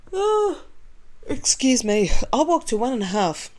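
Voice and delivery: high, snooty mock voice of a bragging vlogger; mocking impression. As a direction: sneer it as the vlogger.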